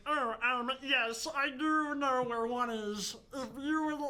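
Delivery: lightly put-on alien, drawn out. Shown as a demonstration. Showing a friend how the Enderman answers, alien voice. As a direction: stretch the words like a hesitant alien. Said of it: "Talk it more like an alien".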